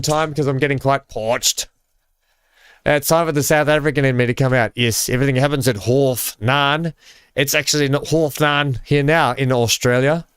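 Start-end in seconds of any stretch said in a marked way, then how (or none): 2.9-10.2 hammed-up South African accent, a little higher; bad South African accent. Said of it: "That's a terrible South African accent".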